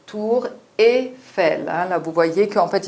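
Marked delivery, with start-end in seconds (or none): 0.1-1.7 "tour et fel" said slowly, with "et" clearly articulated; slow, careful "et" sound demo; pronounced "et". Shown as a demonstration. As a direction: spell out "et" slowly and distinctly. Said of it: "il est plus prononcé comme et".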